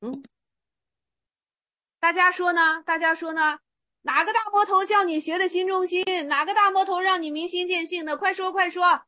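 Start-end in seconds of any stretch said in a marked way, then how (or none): 4.0-9.0 higher, pressing retold challenge; mock fierce demand. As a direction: push the student to answer, higher. Re-enacts monk's fierce demand again. (高声逼问学人)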